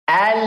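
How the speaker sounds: "Al" with the "l" held long, full tongue edge up; correct lam. Shown as a demonstration. Teacher showing where lam is articulated, correct lam. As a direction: press the whole tongue edge up and sustain the "l" of "Al". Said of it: "Di line-line atas".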